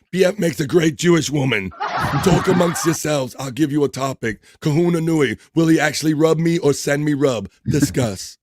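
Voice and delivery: a hint of a hammy hostess; talk-show host bit. Quoting a talk-show character's catchphrases.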